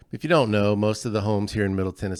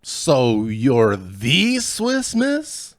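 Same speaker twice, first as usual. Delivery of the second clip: very slow, louder Scots-Irish brogue; slow teasing Scottish-Irish accent; hammed-up Scottish-Irish accent; 5 semitones higher, 6 dB louder, much slower than usual. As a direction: savor the joke slowly in a brogue. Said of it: "I always wanna be good at accents".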